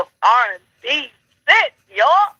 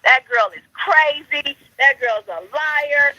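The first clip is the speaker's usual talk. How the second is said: lightly mocking quote of doubters, higher and drawn out; slow, raised-pitch imitation of gossiping people; mimicking doubters; 4 semitones higher, slower than usual. Host quoting people who doubted her, mimicking them. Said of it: "people just was like".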